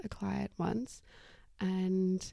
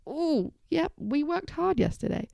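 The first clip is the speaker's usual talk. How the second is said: lightly voiced muscles, pitched up; voice of tired muscles; 5 semitones higher than usual. Muscles answering after yesterday's gym session, lightly voiced in higher pitch. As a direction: speak up as the aching muscles, higher. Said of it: "your muscles are like".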